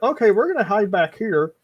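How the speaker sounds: quick scared agreement from the crowd; nervous bandits. Acted. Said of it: "everybody's like".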